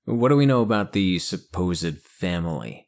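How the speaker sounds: lightly voiced agent. Gruff agent in dark glasses.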